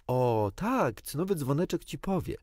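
scornful, rising "cynowy dzwoneczek ci powie"; Wendy scorning Peter's suggestion, contemptuous. A narrator's reading. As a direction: sneer at the fairy's name. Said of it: "odparła pogardliwie Wendy".

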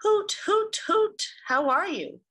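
high, loud hooting boat call; steamer voice. Acted. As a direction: hoot out a cheery greeting like a steamship. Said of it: "said the big steamer with its deep, throaty whistle".

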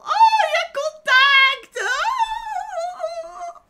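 piercing surprised yelp; shocked squeal. Real, not acted. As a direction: squeal as if caught off guard. Sudden squeal at the touch.

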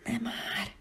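soft exasperated whisper. A narrator's reading. Scared child whispering at the creature. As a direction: hiss it under the breath. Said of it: "Csak ennyit tudtam suttogni".

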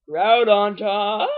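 drawn-out, loud hype call; gleeful drawn-out kickoff; excited announcement. Real, not acted. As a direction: stretch it out slowly with relish. Announcing the big battle to begin.

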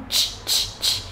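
"ch" as a puff with no vocal cord buzz; voiceless ch. Shown as a demonstration. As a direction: say "ch" without voice, in separate short bursts. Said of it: "Khác ở một chỗ là âm này là âm hữu thanh". (âm "ch" vô thanh, không rung dây thanh quản)

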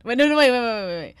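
loud panicked wait wait; frantic yelling. Real, not acted. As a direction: yell at them to stop. Panicked stopping friend.

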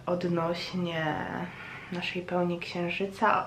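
ordinary delivery

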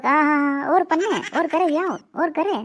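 a light imitated teasing chuckle; mocking laugh. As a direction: tease him while laughing. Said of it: "મને દેખીને હાસી રહ્યા".

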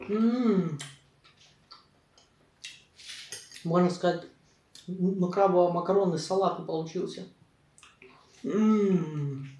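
talking between bites; mouth full, chewing. Real, not acted. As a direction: food in mouth. Seen 1: Took a forkful at -5; jaw moves, lips closed-ish while speaking.

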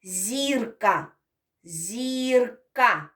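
Зірка with the final а stretched; drawn-out word. Shown as a demonstration. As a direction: stretch the end of Зірка so they hear the last sound. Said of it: "останній звук у слові зірка назвіть". («Зірка» з протяжним кінцевим «а»)

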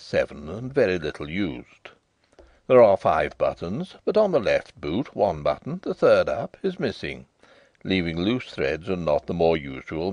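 a hint of a proper butler reciting; respectful butler. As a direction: report each detail like a careful valet. Butler Parkinson reports to master.

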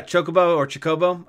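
Chocobo first as CHO-kuh-bo, then as chuh-KO-bo; two pronunciations. Shown as a demonstration. Answering chat about how he says Chocobo, CHO-kuh-bo then chuh-KO-bo. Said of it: "if I heard you pronounce".

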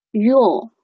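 "your" with a long, full "or" vowel; strong form. Shown as a demonstration. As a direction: draw out "your" slowly in full. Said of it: "一个是your，your". (强读your，元音拉长)

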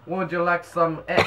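botched French accent attempt; badly faked French-accented English. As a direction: have one go at a French accent. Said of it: "I can't do a French accent".

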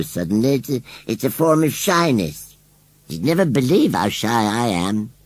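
a rustic country scarecrow, bashful and hesitant; shy scarecrow voice. Acted. Scarecrow explains his shyness to Susan, bashfully. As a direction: stumble through it, modest and shy.

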